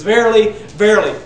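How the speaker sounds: loud ringing verily, verily; emphatic. Retold or imitated. Preacher reading the old King James, loud and emphatic. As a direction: ring out each verily. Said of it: "old King James, it says".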